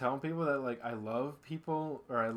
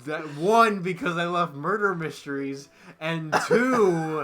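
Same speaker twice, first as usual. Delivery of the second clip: recovering from laughter; 7 semitones higher, 17 dB louder, slower than usual. Real, not acted.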